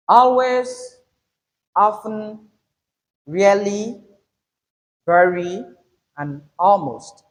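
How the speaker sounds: always, often, really, very, almost, first syllable stressed, word by word. Shown as a demonstration. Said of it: "Make the first syllable louder".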